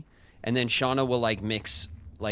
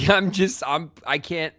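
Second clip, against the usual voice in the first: laughing in disbelief; 6 semitones higher, 7 dB louder than usual. Real, not acted.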